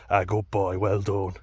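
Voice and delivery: imitating a teacher's smug praise; patronising. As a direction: talk down to him like praising a pet. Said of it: "real patronising".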